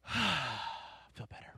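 a soft exhale of relief; relieved sigh. Acted. Preacher acts out relief after a good hug, sighing it out. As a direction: sigh it all out. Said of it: "let everything out".

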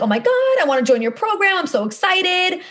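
high, squealing mock excitement; imitating an eager client's excited squeal; excited gush. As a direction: gush like a thrilled new client.

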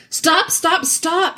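high-pitched urgent interjection; pitched well up, insistent; urgent interruption. A narrator's reading. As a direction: cut in to halt the argument. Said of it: "said Doctor Cornelius".

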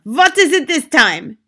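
exasperated witch shout, high and slow; loud, drawn-out irritation. A narrator's reading. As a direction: yell at an unwelcome knock. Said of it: "shouted the Grand High Witch".

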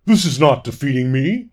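frustrated growl. A narrator's reading. Fawn lord spun round by a butterfly, growling in frustration. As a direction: growl it with thwarted pride. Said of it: "He growled in frustration".

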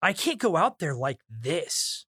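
slow line landing on "this"; stress on THIS. Shown as a demonstration. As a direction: lean hard on the final "this". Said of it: "the emphasis of where it's supposed to be".

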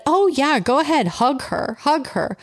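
high, over-friendly mom voice; eager mom. Retold or imitated. Mom inviting strangers to hug her child, eager.

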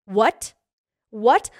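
loud, rising disbelief; shocked what. Retold or imitated. Shocked at celebrity reply.

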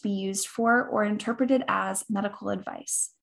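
rapid, even disclaimer read; fast legal disclaimer. Acted. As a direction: rattle off the fine print quickly. Disclaimer at podcast end.

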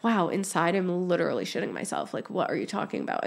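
dropping to a near whisper, fast; confiding hush. Retold or imitated. Admitting her panic to a new contact, a fast hushed confession. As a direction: let the last bit slip out as a secret. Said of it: "And I'm like".

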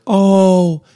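put-on high, slow, sing-song soothing of a crying child; mock soothing a crying husband, in a high slow coo; mock comforting. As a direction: coo it like calming a baby, hammed up. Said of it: "you are literally like".

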